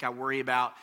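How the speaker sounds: ordinary delivery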